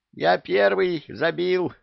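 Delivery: high, loud, slow heated yell. A narrator's reading. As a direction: shout it out in the heat of the moment. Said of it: "что он в запале орёт".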